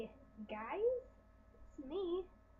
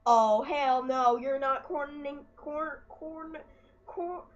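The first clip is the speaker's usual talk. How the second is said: defiant retort; 8 dB louder, slower than usual. Retold or imitated. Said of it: "I'm like".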